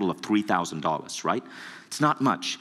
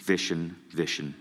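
slow disappointed sigh; 3 semitones lower, 3 dB quieter, slower than usual. Retold or imitated. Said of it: "And Bob goes".

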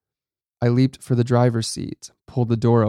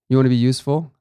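louder, sharp yell; 3 semitones higher, 5 dB louder, much faster than usual. A narrator's reading. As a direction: snap it out in anger. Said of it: "I yelled".

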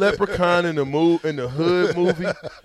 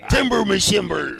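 hammed-up pirate, louder; mock pirate exclamation; 3 semitones higher, 5 dB louder than usual. Host giving in to the pirate, hammed-up pirate voice. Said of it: "That's a little pirate-ish".

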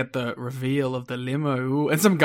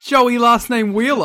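excited emphasis; 8 semitones higher, 9 dB louder, slower than usual. Real, not acted. Cohost still excited.

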